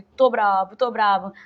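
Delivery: loud sulky protest; sulky child. Retold or imitated. Crying little boy at camp protests to the teacher, loud and sulky. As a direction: blurt it like an upset little boy.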